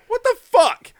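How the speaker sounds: high, loud freaked-out cry; shrieking disbelief. Retold or imitated. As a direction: squeal it in alarm. Son voiced panicking.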